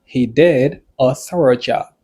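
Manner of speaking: slow, spaced-out example sentence. Shown as a demonstration. Teacher repeating an example for learners, slowly and spaced. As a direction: say it deliberately, separating the first words.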